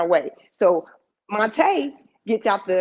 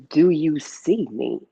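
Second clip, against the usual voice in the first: intense question; 6 semitones lower, slower than usual. Retold or imitated. Aunt in child's face, intense.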